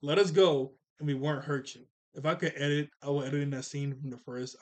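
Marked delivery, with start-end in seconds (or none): 0.0-1.9 bluffing demand. Retold or imitated. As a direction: bluff loudly, drawing the words out. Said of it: "Sokka does try to bluff".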